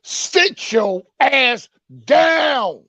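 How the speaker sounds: slow, stretched shouted sit your ass down; a long drawn-out yell. Acted. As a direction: drag it out and yell it. Segment catchphrase, dragged out shout.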